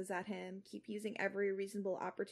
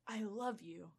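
put-on Australian accent; 8 dB quieter than usual. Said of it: "still attempting it".

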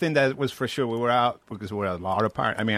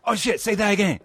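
imitating Steve; 7 semitones higher than usual. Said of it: "he will go like".

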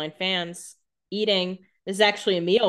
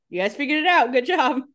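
sarcastic praise; 7 semitones higher, 3 dB louder, faster than usual. Retold or imitated. Sarcastic quote of a character.

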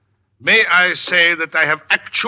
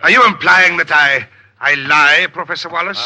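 indignant; 5 dB louder than usual. Acted. Heated quarrel at lecture.

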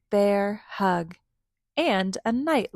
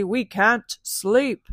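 angry; 5 dB louder, slower than usual. Acted. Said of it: "they cried angrily".

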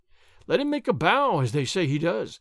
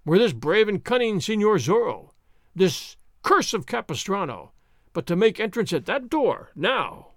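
loud howling boast. Acted. Sergeant bellowing at the landlord and room, loud. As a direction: roar it out, full of drink and bravado. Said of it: "Gonzales howled".

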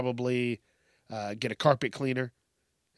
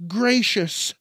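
mock prim; 5 semitones higher than usual. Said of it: "they're like".

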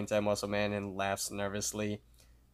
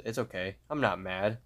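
mock calm. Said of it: "in a calm voice".

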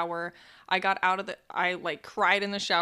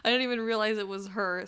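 real nervous giggles breaking into the words; apologetic laughter mid-story; laughing while telling it. Real, not acted. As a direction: talk through helpless little laughs. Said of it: "Sorry, I'm laughing".

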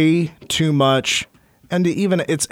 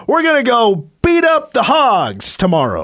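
mock farmer; 6 semitones higher than usual. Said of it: "watch some wannabe farmer talk".

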